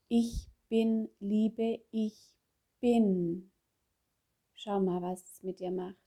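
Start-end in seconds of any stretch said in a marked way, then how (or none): 0.1-3.5 slow, spaced-out affirmation; langsame Affirmation. Shown as a demonstration. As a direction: speak each word slowly, leaving room to feel it. Spricht Affirmationen zum Nachspüren vor. (langsame, bedächtige Affirmation)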